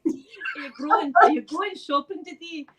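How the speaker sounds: laughing, halting learner's Scottish; attempted Scottish accent. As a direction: giggly try at Scottish. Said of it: "I can't do it".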